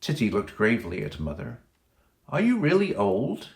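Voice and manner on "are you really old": put-on lightly raised child's voice, wondering; a hint of a little girl's question; curious child. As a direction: ask it like a small girl.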